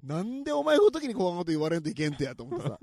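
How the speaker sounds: angry Nagasaki dialect outburst; heated Nagasaki accent. Real, not acted. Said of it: "長崎弁出るとき本当に怒った時だわ". (怒りの長崎弁)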